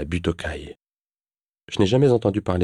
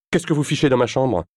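higher, barely held-back anger; shaking with anger; 7 semitones higher than usual. Acted. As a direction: hold the fury in, barely. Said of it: "J'ai du mal à contenir ma colère". (tremblante de colère)

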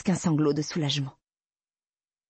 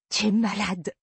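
high, cutting reproach; sharp accusation; 8 semitones higher than usual. Acted. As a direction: throw the words at him in disgust. Heroine recoils from Ben's grip. (reproche cinglant, plus aigu)

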